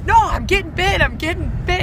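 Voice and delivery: high, loud panicked yelps, retold; mock freak-out. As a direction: act out a man's panic at a sudden sting, hammed up. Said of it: "he's freaking out".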